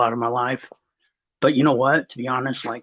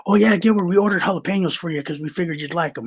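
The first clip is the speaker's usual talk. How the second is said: higher, fast, chirpy coworker voice; mock-cheerful coworker, higher and quick; 5 semitones higher, faster than usual. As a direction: mimic clueless coworkers being cheerful. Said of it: "they're like".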